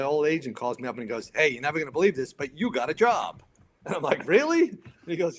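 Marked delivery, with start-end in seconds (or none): 1.3-3.4 lightly acted good-news call, a bit higher; excited agent. Old agent phones with a job, mildly excited. 4.3-4.7 very high, loud disbelief; surprised. Retold or imitated. Fireman hears agent has a job, astonished.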